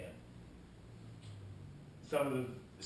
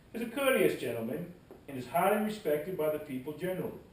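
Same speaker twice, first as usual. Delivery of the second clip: put-on Southern accent, starting loud and easing off; best Southern accent; 4 semitones higher, 5 dB louder than usual. Speaker reading a Southerner's praise of the reverend, best Southern accent. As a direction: read the old account in a Southern voice. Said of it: "I will do my best Southern accent".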